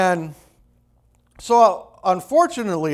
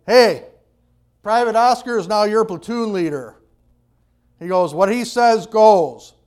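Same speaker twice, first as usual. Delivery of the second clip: official announcement; 4 semitones higher, 4 dB louder than usual. Retold or imitated. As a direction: announce it to the whole platoon. Sergeant announces new platoon leader.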